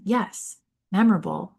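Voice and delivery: normal talking voice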